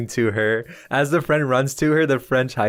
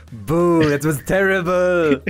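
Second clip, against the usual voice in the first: higher, louder jeering boo; mocking boo; 6 semitones higher, 4 dB louder, slower than usual. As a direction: heckle the bad driving like a crowd. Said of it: "they all go".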